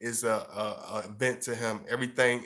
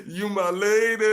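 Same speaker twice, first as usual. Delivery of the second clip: higher and louder, put-on doting voice; mock gushing boyfriend; 9 semitones higher, 7 dB louder than usual. Mocking showy boyfriends who gush over their girl, hammed-up doting. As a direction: ham up a sappy lover. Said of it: "they be like".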